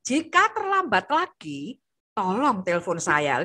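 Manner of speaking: firm but calm, no ups and downs; steady even tone. Shown as a demonstration. Teacher to mothers, showing an even assertive tone. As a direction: keep "Jika terlambat lagi, tolong telepon saya" on one level note, barely rising. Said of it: "nadanya do sampai re aja".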